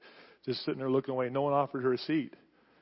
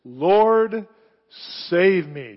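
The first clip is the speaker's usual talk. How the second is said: loud desperate cry for rescue; 4 semitones higher, 9 dB louder, much slower than usual. A narrator's reading. Sinking Peter crying out to the Lord, loud and desperate. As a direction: cry out to be saved. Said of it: "he cried out simply this".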